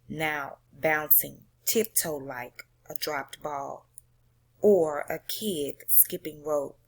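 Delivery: slow, dramatic poem reading. Acted. Teacher reading a poem aloud to class, dramatic poem reading. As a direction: read it like you're watching the runner on base.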